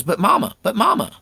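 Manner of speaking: put-on high pleading child; a boy whining back at his mother. Boy protesting to his mama, high whining plea. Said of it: "he goes".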